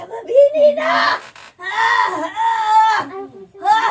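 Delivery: fast, then break into wailing; distressed wail. Real, not acted. Frightened suspect under questioning.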